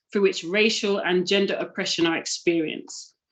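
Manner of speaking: plain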